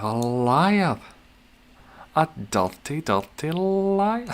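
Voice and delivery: slow, loud, rising teasing accusation; mock accusation. Streamer playfully calls out a chatter, slow and loud mock outrage. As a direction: drag out the dirty liar in mock outrage.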